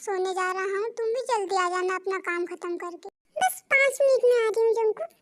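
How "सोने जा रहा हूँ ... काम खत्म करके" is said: tired and sleepy. Acted. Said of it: "अब मैं बहुत थक चुका हूँ".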